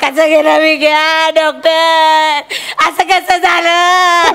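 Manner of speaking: a staged widow's wail, dragged out; hammed-up mourning. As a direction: overact grief for the doctor. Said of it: "आपण acting करूया".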